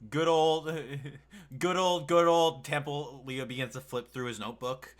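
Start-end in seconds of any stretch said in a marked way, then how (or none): 0.1-3.2 mock fondness. Real, not acted. Mock fond greeting, laughing.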